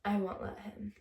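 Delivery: quoted line with a rising end; quoting the girlfriend. Retold or imitated. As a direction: give the girlfriend's words straight, lifting at the end. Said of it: "She's like".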